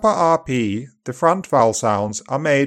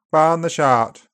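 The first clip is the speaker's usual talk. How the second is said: upper RP accent; 3 semitones higher than usual. Shown as a demonstration. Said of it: "Upper R P is more open and back".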